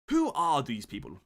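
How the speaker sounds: put-on slow, loud British accent. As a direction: ask slowly in a mock British voice. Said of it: "random British".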